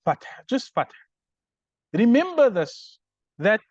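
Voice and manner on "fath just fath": "Fath" with no case ending; bare Arabic noun. Shown as a demonstration. Teacher showing students the word without a hal, "fath" unvowelled at the end. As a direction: say "fath" bare, stopping on the final h. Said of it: "the word is not in a hal".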